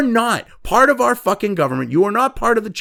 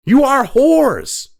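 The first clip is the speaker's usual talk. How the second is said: slow, deliberate, louder insult; contemptuous slow insult; 5 semitones higher, 4 dB louder, much slower than usual. Real, not acted. Ranting host to journalists: slow scornful insult. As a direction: spit each word at them.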